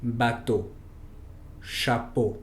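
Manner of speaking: "bateau, chapeau." ending in a closed French o; French eau sound. Shown as a demonstration. Teacher modeling eau words for students, careful French. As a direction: model the closed o at the word ends. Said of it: "Por ejemplo".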